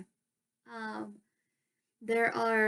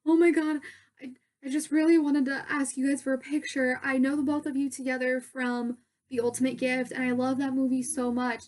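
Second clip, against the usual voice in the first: re-enacted fan outburst, loud and higher; starstruck gushing; 3 semitones higher, 7 dB louder than usual. Fan asking two movie stars for a picture, starstruck. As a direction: gush loudly like an overwhelmed fan. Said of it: "I was so starstruck".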